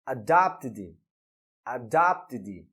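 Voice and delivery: "adopted" low and careful, ending "id"; teacher's careful "adopted", stress on the middle syllable; correct past pronunciation. Shown as a demonstration. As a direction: model "adopted" twice as "a-dopt-id". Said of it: "a pronúncia no passado será".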